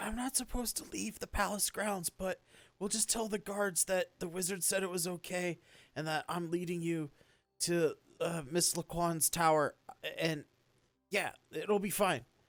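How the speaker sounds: secretive, hushed stage whisper, half under the breath. Speaker retells what a companion half-whispered to them; retelling a half-whisper. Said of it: "he then he whispers like".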